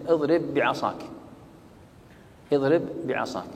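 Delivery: اضرب بعصاك joined on one doubled b; complete idgham. Shown as a demonstration. Teacher illustrates identical letters merging, doubled b in اضرب بعصاك. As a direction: merge the two b sounds of اضرب بعصاك. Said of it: "هذا إدغام تام".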